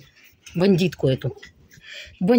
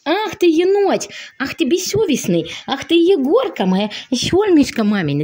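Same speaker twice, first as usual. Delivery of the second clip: high playful scolding; 5 semitones higher than usual. Pretend. Playful scolding then affection.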